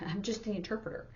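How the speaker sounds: quick, soft, giggling through it; sheepish laughing quote; laughing self-deprecation. Retold or imitated. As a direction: brush it off with a laugh. Quoting interpreters, laughing.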